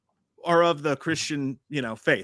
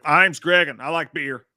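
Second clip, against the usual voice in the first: mock Boston accent; 5 dB louder, slower than usual. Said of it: "he's like".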